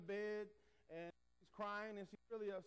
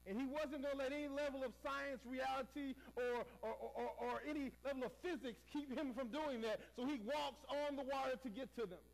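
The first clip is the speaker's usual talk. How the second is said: raised, driving pulpit emphasis; fervent preaching; 5 semitones higher than usual. Acted. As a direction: press the point home to the congregation.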